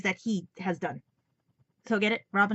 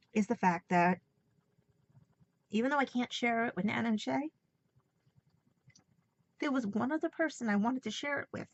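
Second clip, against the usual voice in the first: tearful. Real, not acted. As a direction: voice thick with tears. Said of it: "these tears are for Nana and Shay".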